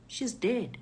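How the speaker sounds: understated, matter-of-fact answer; reply evenly, without any fuss; calm daughter. Retold or imitated. Daughter tells robbers about her sister, calm understated reply. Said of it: "My daughter is calm".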